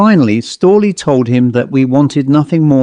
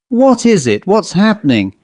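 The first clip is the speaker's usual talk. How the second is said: alarmed; 7 semitones higher than usual. A narrator's reading. Alarmed at night noises.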